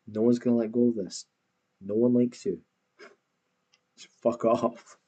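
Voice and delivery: angry rant. Real, not acted. Ranting at the creator.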